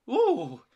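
high, loud ghostly "ooh"; spooky ooh. Acted. Percy tells Thomas a ghost story, spooky.

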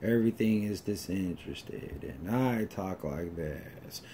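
low, soft, slow uninterested drawl; mock bored drawl. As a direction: mimic a girl too bored to care. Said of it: "because of the way she talks".

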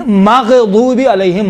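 مغضوب with غ closed, no bounce; careful tajweed demo of a still غ in مغضوب; pronunciation demo. Shown as a demonstration. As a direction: say مغضوب slowly, غ held without any echo. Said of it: "ماغ نہیں ہے".

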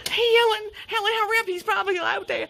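loud panicked calling out; screaming for Helen to hurry, mock terror; frantic yelling. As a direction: yell for your friend in a panic.

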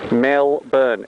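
Melbourne as MEL-bn, no R sounded; short Australian Melbourne, R dropped; Aussie Melbourne. Shown as a demonstration. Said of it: "Everybody say it with me".

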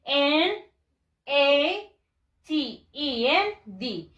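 letters called slowly, one by one; deliberate, spaced-out letters; spelling out. Shown as a demonstration. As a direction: spell it for the class to repeat. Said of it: "Vamos a deletrearlo también".

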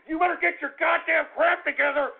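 angry threat. Acted. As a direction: bark it like a threat. Host threatening the radio service.

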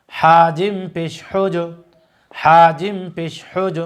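very slow spelling chant, bouncing the final জ of হাজ, হিজ, হুজ; drawn-out, evenly repeated recitation with a rebounding জ in হাজ, হিজ, হুজ; qalqalah drill. Shown as a demonstration. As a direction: stretch হাজিম, then push the জ of হাজ into an echo. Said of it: "কলকলা অর্থ হচ্ছে ধাক্কা দিয়ে পড়া".

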